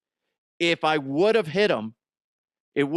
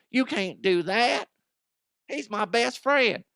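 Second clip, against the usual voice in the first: upset best friend; 9 semitones higher than usual. Retold or imitated. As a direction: squeal it like a protective best friend. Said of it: "He'd be like".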